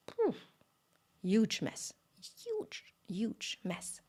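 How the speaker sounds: slow, soft whispered huge; awed whisper. A narrator's reading. Storyteller to listeners about the spilled yogurt, slow awed whisper. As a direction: linger over the mess in wonder. Savouring the mess.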